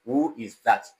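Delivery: "Who is that" with the pitch dropping on 'that'; falling tone. Shown as a demonstration. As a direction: let 'that' fall, as a model question. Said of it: "it has falling tone".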